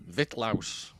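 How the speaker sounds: "Vitlaus" squeezed into two syllables; alternative pronunciation. Shown as a demonstration. Host trying a commenter's name another way, "Vitlaus" in two syllables. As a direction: say "Vitlaus" compactly, no vowel between t and l. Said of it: "pronounce his name eight different ways".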